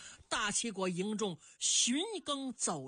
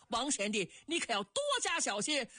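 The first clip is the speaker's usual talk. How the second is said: raised, higher-pitched warning call; 4 semitones higher than usual. Acted. Old general warns Wang Liang at the gate, calling out. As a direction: call out a caution to a departing comrade. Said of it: "耿纯高声喊嚷".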